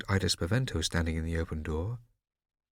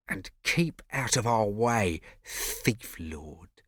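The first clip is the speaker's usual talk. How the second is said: sneering; much slower than usual. Acted. Riccio sneering at Scipio.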